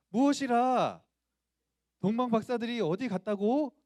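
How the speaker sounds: high, very loud outburst of stage rage; big, forceful theatrical indignation; furious acting. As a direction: roar it as an outraged king, giving it everything. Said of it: "분노하라고".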